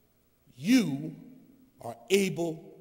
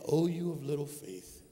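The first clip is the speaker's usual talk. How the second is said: hushed, deep divine reproof; voice of God; 4 semitones lower than usual. Acted. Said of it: "And he's saying".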